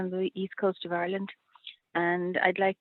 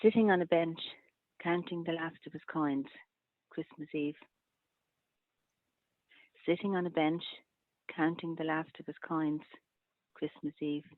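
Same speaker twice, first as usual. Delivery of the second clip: measured lines, falling softer to the last; haiku reading; 4 dB quieter than usual. Acted. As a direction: pause after each line and end softly. Reads haiku twice.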